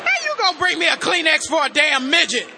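loud, laughing mock outrage; laughing shout. Real, not acted. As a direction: shout it through real laughter, teasing the helper. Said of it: "You see I'm emotional up here?".

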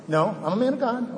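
loud, high no no no; a man stopping his own resentment, loudly; self-correcting protest. Retold or imitated. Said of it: "And then I go".

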